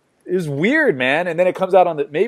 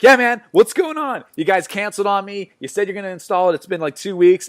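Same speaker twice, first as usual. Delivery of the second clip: annoyed customer; 6 semitones higher than usual. Retold or imitated. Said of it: "and I'm like".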